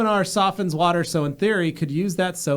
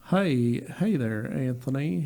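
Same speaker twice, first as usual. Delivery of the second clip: Southern drawl; 3 semitones lower, 5 dB quieter, slower than usual. Retold or imitated. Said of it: "I've heard a".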